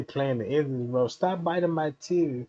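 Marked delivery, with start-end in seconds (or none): none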